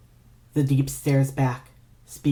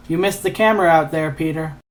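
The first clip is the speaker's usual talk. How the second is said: taunting; 3 semitones higher, 5 dB louder than usual. Acted. Villain taunting from his chair.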